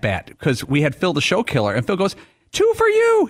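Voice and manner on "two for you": high shouted call; retold scream. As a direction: yell it out like a PA call. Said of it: "He's screaming".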